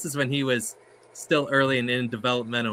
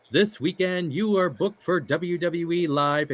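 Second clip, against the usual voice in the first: slow, high ring announcer delivery; measured announcer voice; Howard Finkel voice; 6 semitones higher than usual. Retold or imitated. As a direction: read the booking like a ring announcement. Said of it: "does his voice".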